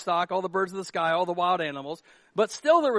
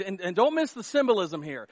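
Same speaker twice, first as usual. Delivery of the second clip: ordinary talk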